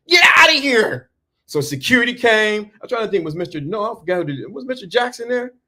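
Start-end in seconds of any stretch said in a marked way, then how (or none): 0.1-1.1 high nerdy teacher voice shouting them out; squeaky little teacher ordering them out; the nerdy teacher throwing the boys out. Retold or imitated. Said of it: "Mister Morris, who was a little nerdy teacher".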